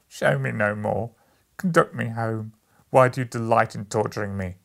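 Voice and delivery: loud anguished plea; anguished pleading. A narrator's reading. Scrooge begs the ghost to take him home, loud and pained. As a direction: beg the spirit to stop.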